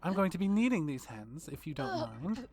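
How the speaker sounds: vampire queen gloating over the intruders; menacing vampire queen. Acted. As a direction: toy with them like prey. Carmilla villain voice.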